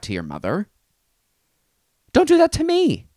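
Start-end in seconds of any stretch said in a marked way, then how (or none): 2.1-3.1 high, loud squeal of dismay; mock horrified squeal. Podcaster begging listeners not to tell moms, squealing. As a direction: squeal it like you're mortified.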